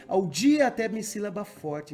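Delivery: "de divas mãos brilhante copa um dia" split syllable by syllable, slow and loud, up to the stressed beat; counting syllables. Shown as a demonstration. Teacher scanning the verse for the class, slow and loud. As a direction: tap out each syllable slowly and loudly. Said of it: "eu sempre conto".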